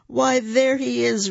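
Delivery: father bear roars, found him; roaring. A narrator's reading. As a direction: roar it out like a big bear. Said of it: "roared the big bear".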